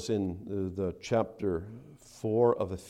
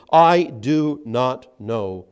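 loud, slow, emphatic acted denial; swearing denial; 9 dB louder, much slower than usual. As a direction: act out an angry oath, hammering each word. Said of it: "and to swear, saying".

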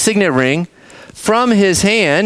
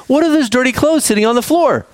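raised-pitch mock scolding; imitated parental reprimand, higher-pitched; 6 semitones higher than usual. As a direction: act out a parent telling off a child. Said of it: "scold you and say".

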